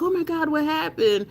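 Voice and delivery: imitating an over-the-top worried viewer; concerned surprise. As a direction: play the alarmed friend popping in.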